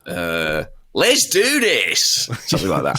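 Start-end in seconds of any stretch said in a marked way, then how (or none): 0.9-2.0 high, slow, drawn-out Australian holler; mock Australian battle cry, much higher; Australian shout. Shown as a demonstration. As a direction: bellow it like an Aussie hyping himself up. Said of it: "what would that be in an Australian accent".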